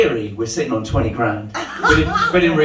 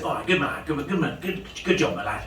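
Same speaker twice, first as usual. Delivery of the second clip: approving dad; 3 semitones higher, 6 dB quieter than usual. Acted. Dad quietly approving in joke.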